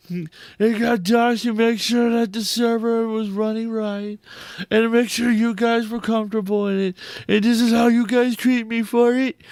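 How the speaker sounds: reading the message as Trump. Retold or imitated. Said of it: "I'm gonna read it in the voice of Trump".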